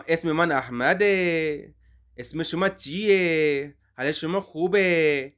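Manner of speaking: slow colloquial forms with endings merged; spoken colloquial Persian. Shown as a demonstration. Teacher demonstrating the colloquial dialogue to students. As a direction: say the short spoken versions slowly. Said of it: "نیچے زیر لگا کے پڑھیں گے".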